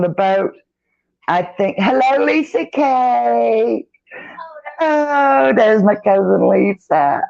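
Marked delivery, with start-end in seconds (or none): 1.8-7.2 excited greeting. Real, not acted. Greets cousin joining stream.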